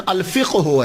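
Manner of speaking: "الفقہ ہو" as al-fiq-hu; no vowel between q and h in "الفقہ ہو"; correct Arabic pronunciation. Shown as a demonstration. Lecturer correcting the common form, "الفقہ ہو" said as al-fiq-hu. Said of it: "اس کا پروننسی-، pronunciation".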